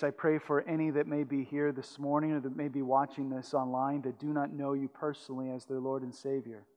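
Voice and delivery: hushed, earnest prayer voice. Acted. Closing prayer.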